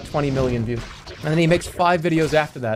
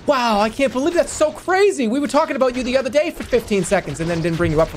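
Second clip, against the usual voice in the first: YouTuber voice; 8 semitones higher than usual. Acted. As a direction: gush like an excited YouTuber. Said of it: "The grandson has the YouTuber voice".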